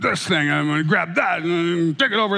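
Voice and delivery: mock dramatic dad. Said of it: "very loudly and dramatically".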